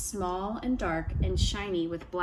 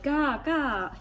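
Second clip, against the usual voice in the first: trickster tale voices; 6 semitones higher than usual. A narrator's reading. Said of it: "Ravenchild said".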